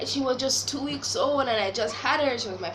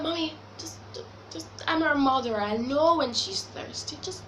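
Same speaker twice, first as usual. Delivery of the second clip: annoyed retort; 3 semitones higher than usual. Retold or imitated. Retorting to her mom.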